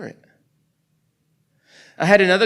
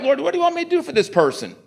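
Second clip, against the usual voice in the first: eager retold prayer; 11 semitones higher, faster than usual. Retells eager prayer to God.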